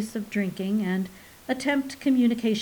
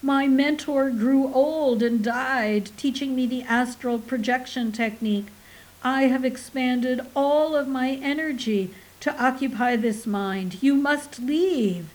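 stentorian wail; 3 semitones higher than usual. Acted. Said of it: "wailed in stentorian tones".

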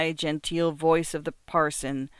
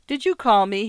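lightly raised, friendly inquiry; pleasant; 5 semitones higher, 6 dB louder than usual. A narrator's reading. Visitant calls in to Markheim, pleasantly. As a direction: ask it pleasantly, higher and a bit louder. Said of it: "he asked pleasantly".

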